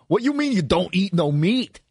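put-on loud Greek auntie accent. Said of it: "my impression of the My Big Fat Greek Wedding".

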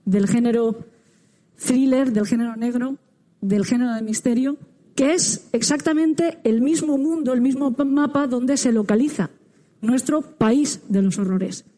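muffled behind a face mask; speaking through mask. Real, not acted. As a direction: talk with a mask over mouth. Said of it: "tuvimos que hablar con la boca cubierta por la mascarilla".

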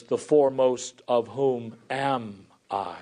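slow, low fall landing on "I"; emphatic word order. Retold or imitated. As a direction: hold back, then set "I" down heavily at the end. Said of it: "it is far more emphatic".

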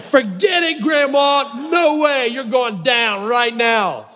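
playful triumphant yell; mock shout. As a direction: taunt grandma as you win. Gloating at grandma during game.

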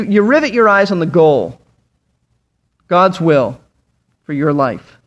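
ordinary talk

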